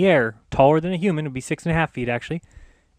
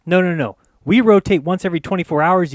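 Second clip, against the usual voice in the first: angry rant; 2 semitones higher, 6 dB louder than usual. Real, not acted. Ranting at globe animation makers.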